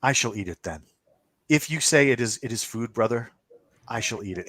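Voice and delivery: a hint of a mischievous female creature; playful woman's voice. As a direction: lightly play her teasing, measured menace. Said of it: "it's a woman's voice, and it's playful".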